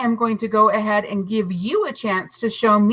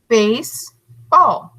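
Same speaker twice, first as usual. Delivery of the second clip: slow syllable demo; 3 dB louder, much slower than usual. Shown as a demonstration. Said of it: "And here we go".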